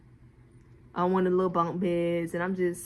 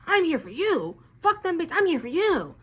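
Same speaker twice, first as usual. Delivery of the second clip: high mock pleading man; 8 semitones higher than usual. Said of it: "he's like".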